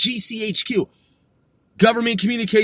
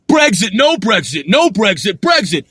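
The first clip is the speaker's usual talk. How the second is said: mocking shout; 4 semitones lower than usual. Real, not acted. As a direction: ridicule the endless flip-flopping. Mocking the back-and-forth debate.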